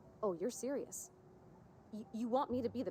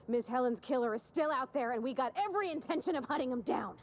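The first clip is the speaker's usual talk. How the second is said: intimidating; 4 semitones higher, 4 dB louder than usual. Pretend. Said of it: "do what Agent Khan would do".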